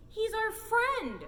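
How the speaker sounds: put-on high, loud, slow childlike shout; kids shouting. A narrator's reading. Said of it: "shouted the kids".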